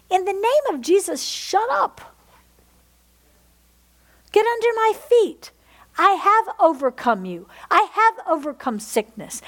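high, forceful declaration to the enemy; commanding rebuke. Acted. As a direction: rebuke it with authority, ringing out. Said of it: "And then you tell that voice".

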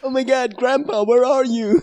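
high-pitched, hammed-up plea; mock desperate searching. Host teasing co-host's hunt for grandpa, mock desperate. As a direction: call out as if hunting for someone lost.

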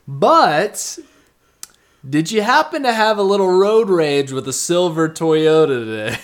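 high mock voice. Confronting the lady, retold.

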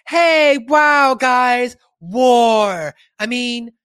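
lightly voiced ditzy star greeting troops; airy starlet voice. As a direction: gush like a dazed celebrity on stage. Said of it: "she's like".

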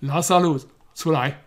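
a loud, commanding call. A narrator's reading. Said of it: "就大声呼叫说". (大声呼叫)

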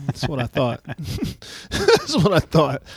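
slow. Retold or imitated. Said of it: "things I say to Ava".

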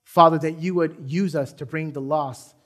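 earnest pastoral prayer, steady and fervent; closing prayer. Acted. Pastor praying over the congregation, earnest and fervent. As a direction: pray over the room, calling on the Father.

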